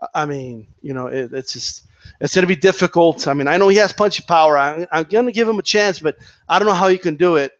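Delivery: lightly mock a pundit unsure of himself; imitating doubtful Joe Rogan. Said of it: "Joe Rogan went from".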